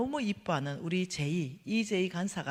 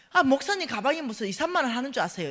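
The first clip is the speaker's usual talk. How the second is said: louder mocking disbelief; incredulous retort; 4 semitones higher, 5 dB louder than usual. Scoffing at the pastor over bag prices, incredulous. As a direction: scoff at him. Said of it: "이러니까".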